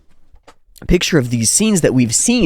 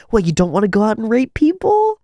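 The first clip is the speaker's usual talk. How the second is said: much higher, loud jeering tough-guy voice; hammed-up toxic bro, much higher; mocking macho bully; 7 semitones higher, 4 dB louder than usual. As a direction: taunt him like a sneering warrior. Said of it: "It's like".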